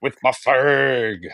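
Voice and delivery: a hammed-up Russian losing at poker; Russian accent. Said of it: "Wasn't my best Russian impression".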